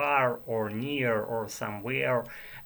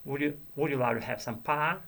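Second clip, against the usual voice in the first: Southern accent; 4 semitones higher, faster than usual. Shown as a demonstration. Learner demos a light Southern accent, offering pie. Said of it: "imitate some southern accent".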